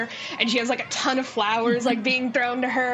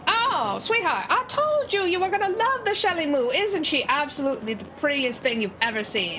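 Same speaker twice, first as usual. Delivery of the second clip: a lightly higher, doting gnome; 5 semitones higher than usual. Acted. Gnome gushing to the winner over Shelly Moo. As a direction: coo it like a proud little gnome. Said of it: "he's like".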